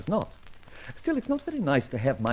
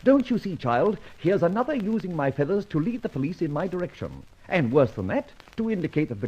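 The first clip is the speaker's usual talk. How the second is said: indignant, rising to a raging pitch; 3 semitones higher than usual. Acted. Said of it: "I'm raging".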